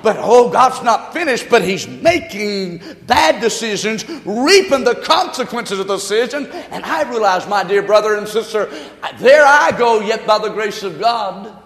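emphatic, punchy pulpit warning; fervent preaching. Real, not acted. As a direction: preach the warning with swelling stresses.

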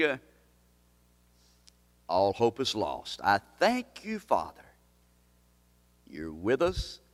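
intercede gently for the hurting; pastoral prayer. Real, not acted. Pastor praying over the discouraged in his church, gentle.

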